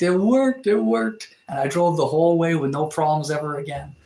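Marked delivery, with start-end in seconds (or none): 0.0-1.3 elated, rising shouts of success; excited. Real, not acted. Streamer cheering that the radiator fix worked, excited.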